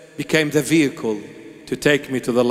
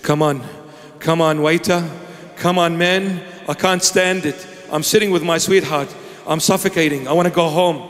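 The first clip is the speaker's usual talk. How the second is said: impatient on a date; 4 semitones higher than usual. Acted. Impatient man on a coffee date.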